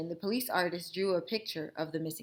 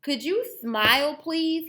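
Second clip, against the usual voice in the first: Grandpa's toothless voice; 9 semitones higher, 9 dB louder than usual. Acted. Grandpa asking.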